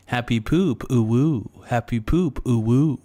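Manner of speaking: sing-song swoop on each short phrase; playful uwu catchphrase. Pretend. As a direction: lilt it like a silly slogan, close to laughing. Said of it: "I'm gonna be like".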